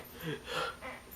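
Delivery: breathy freak-out gasp; panicked gasping. Retold or imitated. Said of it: "freaking out".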